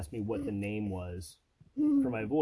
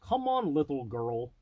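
Mishka Mishka voice. Retold or imitated. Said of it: "using your Mishka Mishka".

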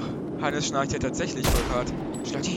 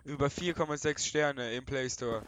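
mock ad read; 2 semitones lower than usual. Teen YouTuber parodying a game sponsorship, lightly voiced ad read. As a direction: rattle off the sponsor pitch like a YouTuber.

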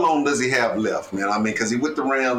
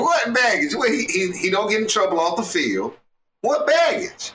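incredulous; 5 semitones higher than usual. Real, not acted. Incredulous challenge in debate.

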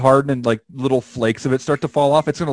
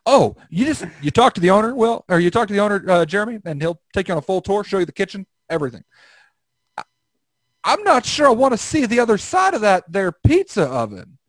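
higher twangy yokel voice; hick voice; 4 semitones higher than usual. Acted. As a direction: play a folksy country guy. Hick character voice, raised pitch.

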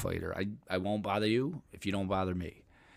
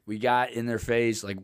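ordinary delivery

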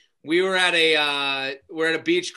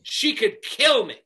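angry complaint; 5 semitones higher, 4 dB louder, slower than usual. Retold or imitated. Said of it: "she goes".

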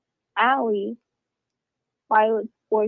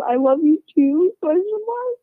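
reading a text aloud; 6 semitones higher than usual. Retold or imitated. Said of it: "and then says".

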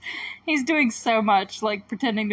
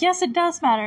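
mock insistent comeback, pitched high; playacted high-pitched contradiction; retold arguing; 8 semitones higher, 4 dB louder than usual. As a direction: argue back as the mother, higher-pitched. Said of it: "like, arguing".

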